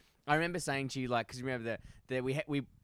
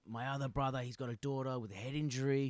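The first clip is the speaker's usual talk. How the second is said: soft, lightly voiced Colombian accent; earnest imitation with a hint of Colombian accent; 4 dB quieter than usual. Colombian worker explaining his family's troubles, Colombian accent. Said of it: "started doing an accent".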